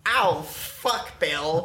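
mock agony. Australian to Bill under scorching sun, mock agony. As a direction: groan as if burning, for laughs. Joke skit melting in Australian heat.

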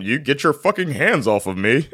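announcer's voice in a pretend argument; mock broadcast voice. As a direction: argue like a sportscaster, half laughing. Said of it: "you don't talk like that".

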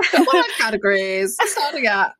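laughing auctioneer imitation; mock auctioneer. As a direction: tease with an auctioneer's opening call. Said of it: "you sounded like an auctioneer".

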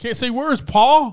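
high, loud comic outburst; loud, high self-mocking complaint; giddy exasperation. Real, not acted. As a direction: wail it at your co-host, giddy. Mock outburst at own slip.

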